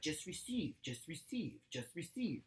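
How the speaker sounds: soft, hushed repeated mantra; calming self-talk. Retold or imitated. The speaker telling herself to accept pleasure, soft mantra. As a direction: coax yourself quietly to relax. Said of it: "taking a lot of me just being like".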